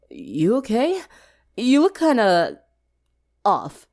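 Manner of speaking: Vinyl concerned. A narrator's reading. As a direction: Vinyl checking on a friend. Vinyl voiced in story.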